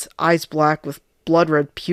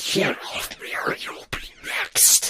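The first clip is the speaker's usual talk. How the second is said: slow, menacing, sinister whispered demon voice; 2 semitones higher, 7 dB quieter than usual. A narrator reads Shannon's line to two people prying him off a child, demonic Shannon voice. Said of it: "the voice sounded a bit demonic. / a tall, slender figure shoved the door open and came downstairs. It was, of course, Shannon, but this time he looked a bit more sinister than usual. I kind of starte".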